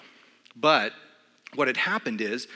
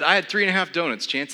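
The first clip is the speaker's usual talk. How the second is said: repeated louder and higher, spelled out; 5 semitones higher, 5 dB louder than usual. Retold or imitated. Repeating the donut count to his startled trainer, louder. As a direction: say it again, louder, owning it.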